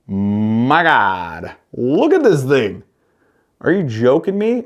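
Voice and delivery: excited my God, are you joking; amazed. Real, not acted. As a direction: gush over it like you can't believe it. Amazed by the jig.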